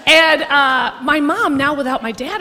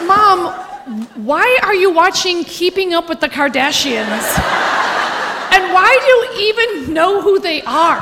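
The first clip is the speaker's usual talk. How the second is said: exasperated daughter; 3 semitones higher than usual. Retold or imitated. Daughter confronting her mother.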